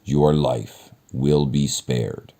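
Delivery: slow, heavy monster pronouncement; slow beast voice. Acted. Beast sparing the merchant's life, slow and heavy. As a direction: deliver the verdict slowly like a beast.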